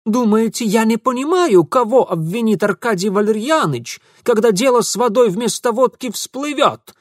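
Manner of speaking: high, loud angry challenge; angry squint. Acted. Ingvar angrily accusing Mitya. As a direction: bite it out with a squint. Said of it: "зло прищурился Ингвар".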